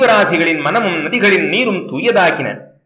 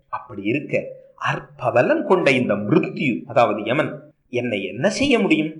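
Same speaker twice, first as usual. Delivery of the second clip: put-on young Grahapati, gentle then resolute. Grahapati comforts then vows.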